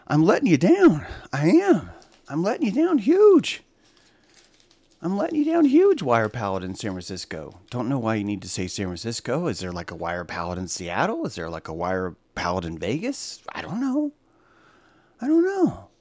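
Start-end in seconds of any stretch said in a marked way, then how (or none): 0.1-6.0 mock lament. Real, not acted. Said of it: "self-mocking lament". 13.5-15.9 mock shrug. Real, not acted. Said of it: "repeated high shrug".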